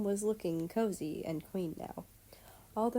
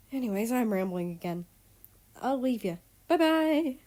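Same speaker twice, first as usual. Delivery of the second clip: maid voice; 4 dB louder than usual. Acted. Maid character warning then farewell.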